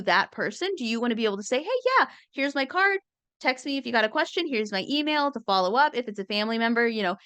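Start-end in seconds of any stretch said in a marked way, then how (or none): 1.6-5.9 high, bright eager offer; lightly voiced friendly networker; eager helper. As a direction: hand out the card cheerfully. Voicing friendly atheist offer.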